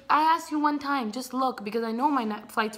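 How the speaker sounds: mild acted-out scream; retold screaming. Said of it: "I'm gonna scream at them".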